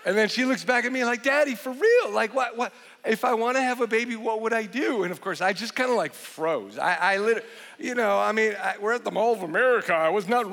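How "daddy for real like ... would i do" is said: lightly voiced little girl, higher and fast; a hint of a pleading child pressing her dad; insistent daughter. Daughter pressing her dad at the mall, a touch higher and fast.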